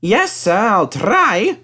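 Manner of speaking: high, eager reply; ready and willing; eager engine. A narrator's reading. James answering the boss.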